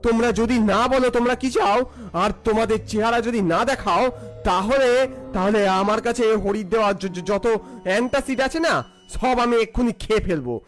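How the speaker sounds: shouting. Acted. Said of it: "খুব জোরে চেঁচিয়ে বললাম".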